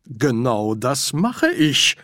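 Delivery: deliberate, slow insistence; emphatic. Acted. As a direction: plant the words firmly. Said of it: "betonte Ridcully".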